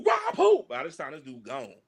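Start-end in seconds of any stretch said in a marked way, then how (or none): 0.0-0.6 high, sharp disbelief; mock tough guys scoffing at a threat; mock incredulous. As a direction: toss it back like the idea is absurd. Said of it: "Me, Huck, and Joe go".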